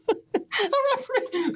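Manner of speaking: "A referee" drawn out slowly and high; "A referee" repeated slow and high to savor the joke. Acted. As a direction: stretch each syllable of "A referee" out.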